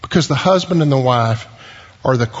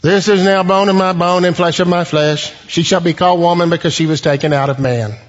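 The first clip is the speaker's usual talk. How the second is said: lightly stiff, churchy recitation of the verse; solemn formal reading. Shown as a demonstration. Preacher mocking how the church reads Adam, lightly solemn. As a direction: read it like a stiff Bible reading. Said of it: "here's the way we typically read that".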